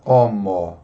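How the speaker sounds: "homo" begun straight on the O; silent H. Shown as a demonstration. Teacher giving an example word, "homo" with silent H. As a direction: say "homo" as "omo", no H. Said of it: "Tem o H na frente, mas nós não".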